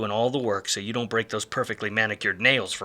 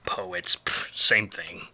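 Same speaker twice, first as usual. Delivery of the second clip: dismissive whisper; much slower than usual. Acted. Detective dismissing poets.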